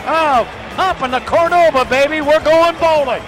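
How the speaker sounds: excited radio goal call; rapid hockey play-by-play. Real, not acted. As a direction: call the rush fast, erupt at the goal.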